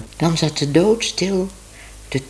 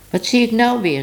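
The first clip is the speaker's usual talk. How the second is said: higher, louder cry of dismay; raised exclamation; 8 semitones higher, 4 dB louder than usual. A narrator's reading. Tibbe ziet Minoes zich wassen, roept geschrokken. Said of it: "riep hij".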